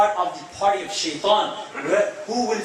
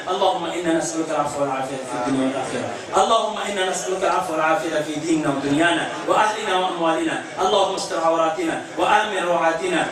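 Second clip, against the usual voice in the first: rapid, rhythmic closing prayer; fluent, fast prayer recital; Arabic supplication; faster than usual. Real, not acted. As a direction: recite the du'a quickly in a steady flow.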